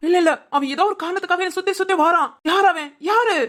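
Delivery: high-pitched, insistent outburst; agitated shouting. Acted. Demanding who keeps following him, agitated high cries. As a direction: blurt it out in rising agitation. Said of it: "ஏய், நீ மொத கத்தாத".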